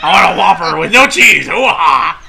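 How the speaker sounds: loud gruff Pacino bark; Al Pacino impression. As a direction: shout the order like Pacino. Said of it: "Is that Al Pacino?".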